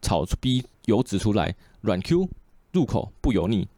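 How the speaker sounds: casual podcast read of a printed report; newspaper article read. Real, not acted. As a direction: read a news article aloud in even phrases. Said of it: "读一下报纸吧".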